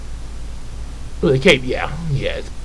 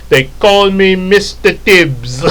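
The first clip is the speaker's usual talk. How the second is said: tough catchphrase; 3 semitones higher, slower than usual. Retold or imitated. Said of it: "referencing Mister T".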